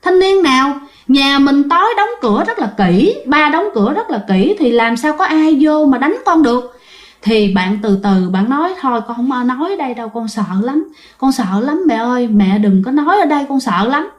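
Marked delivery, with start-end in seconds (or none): 0.0-6.7 high, startled questions; retelling her own alarm in a high voice; high, urgent disbelief; shocked mother. Retold or imitated. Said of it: "cô rất là hết hồn". 8.8-14.1 a lightly voiced frightened daughter begging; imitating a scared child. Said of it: "bạn đã mất bình tĩnh rồi".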